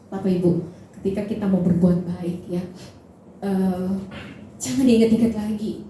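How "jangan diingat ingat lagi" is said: building louder toward the final word; forceful preaching. Real, not acted. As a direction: drive the exhortation home to the congregation. (khotbah tegas yang makin lantang)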